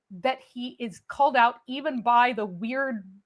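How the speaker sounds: usual speaking voice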